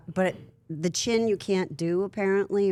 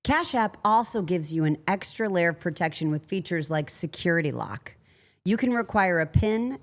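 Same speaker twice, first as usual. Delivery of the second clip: smooth scripted sponsor read. Acted. Host reads Cash App ad to listeners, smooth ad voice. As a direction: sell it like a podcast ad.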